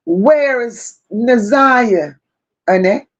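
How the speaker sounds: slow, calm, level question; an eerily calm, slow demand for an answer. Retold or imitated. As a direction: ask it coolly and deliberately. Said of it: "you said it in such a calm tone".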